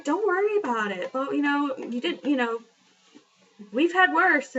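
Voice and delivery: imitating a gentle, soothing nurse; calm her down kindly, lightly voiced; reassuring nurse. Nurse soothing the embarrassed patient, mild reassurance. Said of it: "trying to make me feel better".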